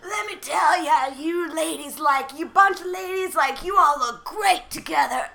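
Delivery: lightly voiced raspy actor, slow and drawling; a hint of a raspy man, taking his time; Michael Rooker impression. Actor compliments the group of ladies, lightly mimicked rasp. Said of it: "His voice is so raspy".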